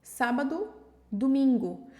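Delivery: sábado and domingo with the final o reduced toward u; Portuguese sábado. Shown as a demonstration. Teacher saying Portuguese words to show the u ending. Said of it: "Fala sábado e domingo em português".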